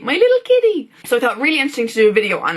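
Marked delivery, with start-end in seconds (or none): 0.0-0.9 cutesy kitty voice. Retold or imitated. Cooing over her cat.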